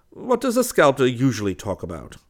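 high, loud exclamation sliding down; laughing cry. A narrator's reading. West teasing about sculptors, crying out with amusement. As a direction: call it out in amused, high pitch. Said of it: "cried West with a laugh".

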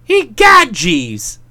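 sudden alarmed exclamation; startled. Acted. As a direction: blurt it out in surprise.

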